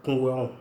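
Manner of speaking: Kungweon said slowly and clearly, syllable by syllable; Woloduka word for head. Shown as a demonstration. Teacher pronounces Kungweon for students learning Woloduka, clear and careful. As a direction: model Kungweon cleanly for learners to repeat. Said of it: "La tête en Woloduka".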